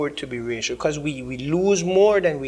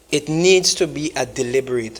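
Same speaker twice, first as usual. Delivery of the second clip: deliberate said firmly, every syllable weighed; stress on deliberate; 2 semitones lower than usual. Real, not acted. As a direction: lean hard on deliberate. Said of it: "I put emphasis on the word deliberate".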